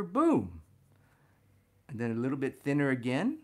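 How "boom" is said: a sudden loud, higher "boom"; punchy boom. Real, not acted. Teacher tracing a line, punching the thick point. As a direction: hit it like a drumbeat.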